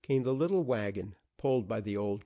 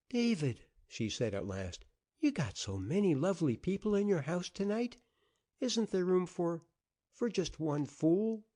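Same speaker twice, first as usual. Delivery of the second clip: a hint of shame as she begs to come in; pleading woman; 7 semitones higher than usual. A narrator's reading. Ashamed wife pleads at door.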